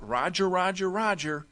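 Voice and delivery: mild demo shout of the call; yell out. Shown as a demonstration. Linebacker calling strength right, mild shout. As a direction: sing it out to the defense. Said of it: "he's gonna yell out".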